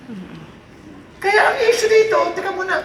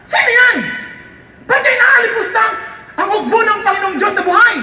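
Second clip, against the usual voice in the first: David indignant; 3 semitones higher than usual. Acted. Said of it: "parang binata na".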